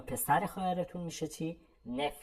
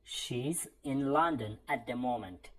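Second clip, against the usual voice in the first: slow, clearly spaced English for learners; slow model sentence; much slower than usual. Shown as a demonstration. Teacher modelling a phrase for students, slow and clear. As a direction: say each word slowly so students can repeat. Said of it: "باید چی بگیم دوستان؟".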